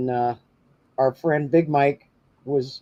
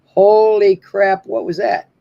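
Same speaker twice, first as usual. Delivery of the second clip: startled; 7 semitones higher, 8 dB louder, slower than usual. Retold or imitated. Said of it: "And I'm like".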